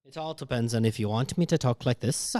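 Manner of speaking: lightly put-on Irish accent; Irish accent demo. Shown as a demonstration. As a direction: show off a casual Irish lilt. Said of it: "a good Irish accent you could do".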